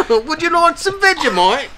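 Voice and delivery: high Australian voice; hammed-up Aussie accent. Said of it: "You're very New Zealand".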